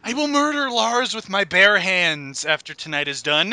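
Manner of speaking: low, quiet murderous vow; deadpan threat. Real, not acted. Reviewer threatening Lars after tonight, deadpan menace. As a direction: drop low and promise it grimly.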